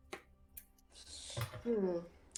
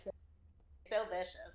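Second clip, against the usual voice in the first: whisper; 2 semitones lower, 6 dB quieter, slower than usual. Acted. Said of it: "playful cat complaint".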